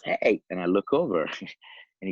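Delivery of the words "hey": raised, higher-pitched call; retold yell. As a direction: imitate a man calling out from a car. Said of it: "and he yells".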